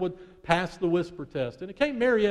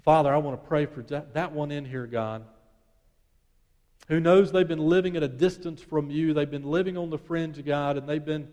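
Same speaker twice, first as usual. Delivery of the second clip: earnest prayer; 2 semitones lower than usual. Acted. Leads a closing prayer.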